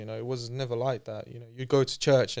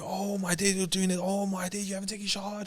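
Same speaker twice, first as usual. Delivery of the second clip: imitating overjoyed brothers, higher pitched; mock-ecstatic higher voice of excited friends; 8 semitones higher, 3 dB quieter than usual. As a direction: gush like you can't believe your luck. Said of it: "started going mad".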